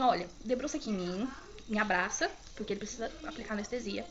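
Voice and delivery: imitating a kind nurse coaxing a patient; gently retold reassurance; calming. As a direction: talk someone down kindly. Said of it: "Ela começou a me acalmar".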